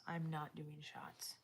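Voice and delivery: slow, hushed whisper; quiet no-thanks whisper; whispered refusal. Real, not acted. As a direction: whisper it aside, slowly. Muttering aside to someone.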